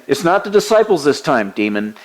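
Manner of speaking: voicing Jesus ordering the demon out; stern rebuke. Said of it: "He's saying".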